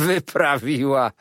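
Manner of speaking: powtórzone słowo „Wyprawiła” ze śmiechem, powoli; rozbawiony przedrzeźnia słowo „Wyprawiła”. Acted. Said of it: "zaśmiał się gospodarz domu". (gospodarz śmieje się z żony: „Wyprawiła”, rozbawiony)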